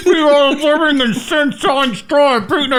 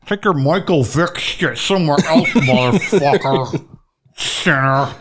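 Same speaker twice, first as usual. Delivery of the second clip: scolding dead mother; 7 semitones lower than usual. Pretend.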